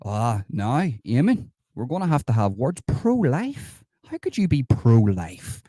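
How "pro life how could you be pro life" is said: high incredulous question; mock disbelief. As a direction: scoff it back in shock. Outraged at a pro-life commenter.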